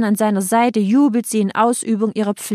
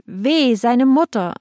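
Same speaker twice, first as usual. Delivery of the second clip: higher wailing cry; shrill lament; 4 semitones higher, slower than usual. Acted. Crowd laments for the mother, shrill lament. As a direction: cry out in woe. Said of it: "ertönte es schrill".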